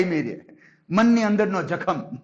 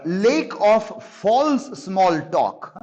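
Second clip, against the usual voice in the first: slow reading; much slower than usual. Acted. Reads key phrase slowly.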